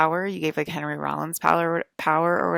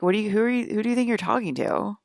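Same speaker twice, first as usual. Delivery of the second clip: high, loud indignant challenge; demanding who they think they are; indignant retort; 6 semitones higher, 3 dB louder than usual. Retold or imitated. To the mortal who complained, an indignant high retort.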